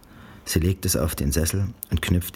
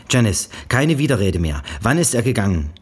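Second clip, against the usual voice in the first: höher und lauter, streng befehlend; strenge Mutter; 6 semitones higher, 5 dB louder than usual. A narrator's reading. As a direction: schneide ihr das Wort ab. Mutter duldet keinen Widerspruch. (Mutter weist Janice streng zurecht)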